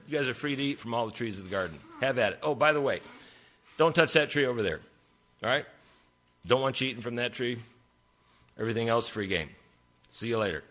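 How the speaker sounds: breezy, fast, offhand host; lightly voiced laid-back God, rattling it off; casual God voice. Preacher voicing God telling Adam and Eve about the trees, breezy and fast.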